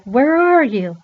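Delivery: loud, high searching call, acted. Repairman searches for child in carousel, calling out. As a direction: call into the machinery for a hidden kid.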